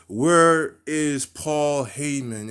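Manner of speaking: loud, slow demanding call; angry callout. Retold or imitated. Roman, pissed, calls for Paul Heyman: slow loud demand. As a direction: drag it out like a furious champion.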